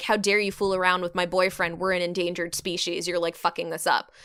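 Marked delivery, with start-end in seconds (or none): none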